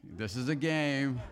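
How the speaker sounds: laughing. Real, not acted. Laughing after "remember, this is a game.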